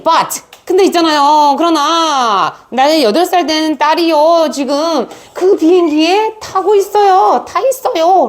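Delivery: high, urgent pleading mother; insistent plea. Acted. Angry mother insisting her daughter is aboard. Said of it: "굉장히 주장을 하고 있습니다".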